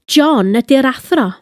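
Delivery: "John" carries the emphasis; stress on JOHN. Shown as a demonstration. Language teacher showing who is the teacher, stressing "John". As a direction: lean on the opening word, "John". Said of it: "Emphasis on the fact that John is the teacher".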